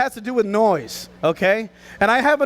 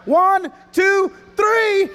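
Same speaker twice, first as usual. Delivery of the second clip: countdown call; 5 semitones higher, much slower than usual. Real, not acted. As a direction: count them in and build up. Counting down for bear growl.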